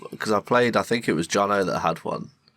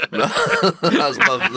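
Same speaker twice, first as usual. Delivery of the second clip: pigeon impression; 10 semitones higher, 4 dB louder, much slower than usual. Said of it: "that's my pigeon impression".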